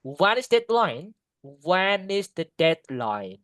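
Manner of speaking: slow, stretched question dropping on "deadline"; falling question intonation. Shown as a demonstration. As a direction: draw out "deadline" and let it fall. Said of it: "go down". (nada "deadline" turun perlahan)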